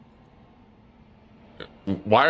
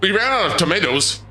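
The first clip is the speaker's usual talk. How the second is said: higher-pitched, hammed-up incredulity; mock disbelief; 6 semitones higher than usual. Streamer pelted with food by chat, in mock disbelief. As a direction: stammer in exaggerated dismay.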